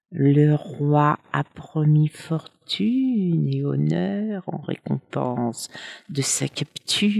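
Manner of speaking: slow, sweet and sly, almost coaxing; a sly serpent coaxing the gypsy with a reward; honeyed tone. Acted. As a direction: tempt him slowly with a silky voice. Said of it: "d'un ton doucereux".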